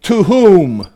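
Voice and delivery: "To whom" high, drawn out and falling; emphatic. Acted. Satan choosing who receives authority, emphatic. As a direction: set "To whom" apart with a big swoop on WHOM. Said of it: "the next box".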